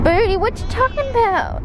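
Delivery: high laughing question. Real, not acted. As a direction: laugh through the words. Laughing at dog.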